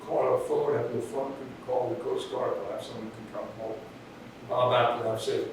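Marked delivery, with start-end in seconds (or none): 0.1-3.8 lightly imitated French accent; a hint of a French accent on a stranded sailor's plea; thick French accent. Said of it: "says in a thick French accent".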